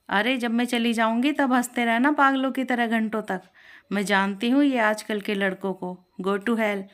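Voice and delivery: offended woman scolding a smirking shopkeeper; angry. Acted. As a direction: tell him off sharply. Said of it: "कुसुम को गुस्सा आ गया".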